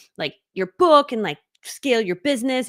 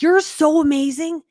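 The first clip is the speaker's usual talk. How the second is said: higher, slow gushing praise; gushing excitement; 7 semitones higher, 6 dB louder, slower than usual. Retold or imitated. Coach quotes herself praising a student, gushing. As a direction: gush over her like a proud fan. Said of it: "I can't stop getting so excited about it".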